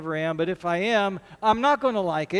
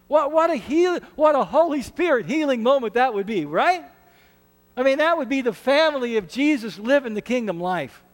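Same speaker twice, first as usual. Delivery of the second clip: higher, louder, rising fervour; excited exhortation; 6 semitones higher, 4 dB louder than usual. Real, not acted. Pastor urging church toward healing moments, excited. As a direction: lift the room with wonder.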